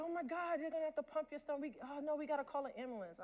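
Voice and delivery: high, loud panicked rush; a panicking urgent care worker, fast; freaking out. Retold or imitated. Urgent care guy panics at the overdosed patient, high frantic voice. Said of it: "The guy starts freaking out".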